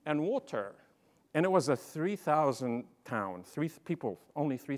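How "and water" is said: put-on British-accented order, carefully spoken; British English. Newcomer ordering at Hardee's, in British English. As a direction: say water the British way. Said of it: "I knew British English".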